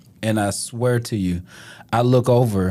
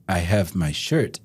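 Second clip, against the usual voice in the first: slow, low imitation of a European accent; 6 semitones lower, 4 dB quieter, slower than usual. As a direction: play the European stranger slowly, pitched down. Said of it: "That's your European accent?".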